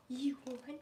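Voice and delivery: hushed, breathy-free whisper to the dog; teasing whisper. Real, not acted. Whispers to her dog about a treat, teasing hush. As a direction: lean in and whisper the offer.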